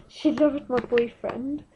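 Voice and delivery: breathless conspiratorial whisper with a laugh; hushed gossip about the midwife; whispered aside. Real, not acted. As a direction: let it slip out as a giggly secret.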